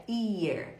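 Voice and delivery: "ear" begun straight on the vowel; dropped H. Shown as a demonstration. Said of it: "pra não ficar parecendo orelha".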